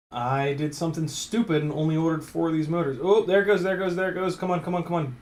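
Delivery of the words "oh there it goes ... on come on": excited urging. Real, not acted. C-clip slipping off.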